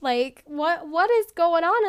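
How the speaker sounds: imitating a friend's baffled questioning; mock-concerned friend demanding an explanation; puzzled questioning. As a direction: press for answers with swooping, incredulous pitch. Friend puzzled by long silence.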